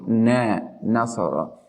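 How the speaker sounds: "Na" said with the mouth wide open; open-mouthed fatha. Shown as a demonstration. Teacher showing nun with fatha, mouth wide open on "Na". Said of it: "You should open your mouth widely".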